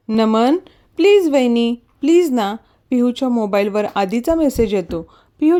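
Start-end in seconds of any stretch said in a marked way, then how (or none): 0.1-2.5 gentle acted begging; pleading. Acted pleading with sister-in-law.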